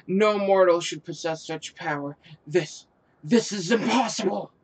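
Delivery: mildly voiced outraged harpy; shocked boss. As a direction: sound stunned at the power. Reads harpy boss line, criticised after.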